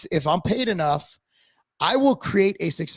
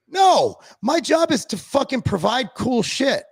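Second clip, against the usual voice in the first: emphatic sing-song; 6 semitones higher, slower than usual. Real, not acted. Emphatic rant, half sung.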